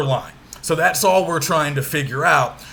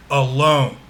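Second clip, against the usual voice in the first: "alone" with an unstressed "a", then a strong "lone"; stress on second syllable; 2 semitones lower than usual. Shown as a demonstration. Teacher repeating the example for students, "alone" stressed on its second syllable. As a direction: put the weight on "lone" in "alone". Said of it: "We emphasize the second syllable".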